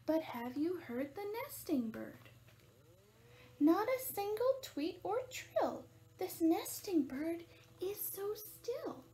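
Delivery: measured, lilting picture-book narration; animated storytime voice; reading to children. A narrator's reading. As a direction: read it out clearly for little listeners.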